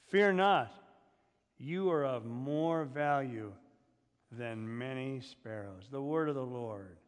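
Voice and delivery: measured, declaiming Bible reading; scripture reading. Acted. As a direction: read the verses out to the standing congregation. Reads scripture aloud.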